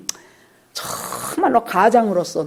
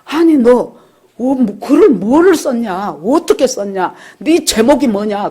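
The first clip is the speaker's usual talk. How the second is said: higher, louder stunned questions; astonished father; 4 semitones higher, 5 dB louder than usual. Retold or imitated. Father hearing his son won the grand prize, stunned and loud. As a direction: burst out in disbelief at the news. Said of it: "너무 놀래갖고".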